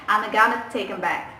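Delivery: "I'm gonna take them back" run together, with "gonna" for "going to"; American abbreviated forms. Shown as a demonstration. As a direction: reduce "them" to "'em" and link the words American-style. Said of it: "American speakers will say like this".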